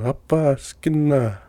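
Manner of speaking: mild mock yell, drawn out; stretched-out retold call; imitated yell. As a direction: echo a call without shouting. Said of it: "that's what he's yelling".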